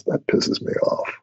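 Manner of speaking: slow, under-the-breath muttered complaint; low mutter. Retold or imitated. Customer muttering his annoyance to the young clerk, slow and unvoiced. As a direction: mutter it, half to yourself, slowly. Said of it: "what I really said is".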